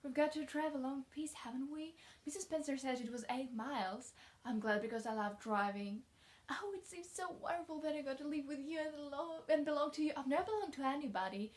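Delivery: put-on lively, wondering child character; eager chatty child. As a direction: gush like a delighted orphan child. Reads eager orphan girl's lines.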